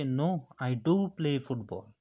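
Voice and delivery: "do" given extra force; stress on do. Shown as a demonstration. Replying to someone who doubts you, stress on "do". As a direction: lean on "do" to insist. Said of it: "in order to give force on your statement".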